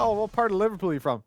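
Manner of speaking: quick mock Scouse question; lightly put-on Liverpool accent. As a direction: imitate someone asking in a Scouse accent. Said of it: "Someone in a Scouse accent".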